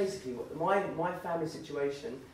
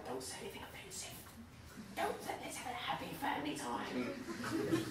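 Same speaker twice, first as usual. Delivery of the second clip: hushed, strained fake-happy family voice; tense, forced cheer through a tight whisper; uptight family; 2 semitones higher, 6 dB quieter than usual. Tense family retold, acted uptight.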